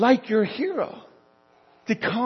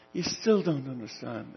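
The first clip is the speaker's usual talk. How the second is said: gentle admonishment; 6 semitones lower, 6 dB quieter than usual. Acted. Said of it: "he gently admonishes them".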